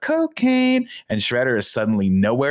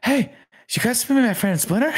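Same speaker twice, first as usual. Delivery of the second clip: much higher, shouted mock voice; April impression. Hammed-up imitation of April introducing Splinter, high shout. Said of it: "Sorry, Andy, you did it better".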